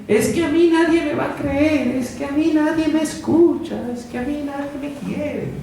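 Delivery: voz quejumbrosa, alta y luego apagada; quejoso lastimero. Retold or imitated. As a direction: lloriquea como quien se cree olvidado. Imita la voz quejosa de uno. (voz de queja lastimera)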